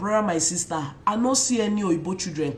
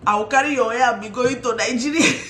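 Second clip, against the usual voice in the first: laughing joke; 3 semitones higher, 4 dB louder than usual. Real, not acted. Joking threat about hair.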